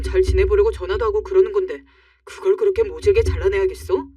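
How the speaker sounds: angry husband. Acted. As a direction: confront her for hurting his mother.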